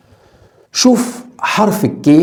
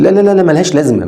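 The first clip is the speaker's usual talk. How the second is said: dismissive student; 3 semitones higher, faster than usual. Retold or imitated. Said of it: "ما ينفعش تقول".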